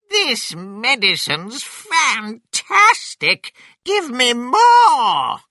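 high, loud, slow cry of delight; exultant shout. Acted. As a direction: bellow it high, stretching the words.

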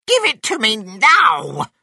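high, loud grandma shout; demanding grandma. A narrator's reading. Grandma demanding the cup from George, angry shout. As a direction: order it furiously in character.

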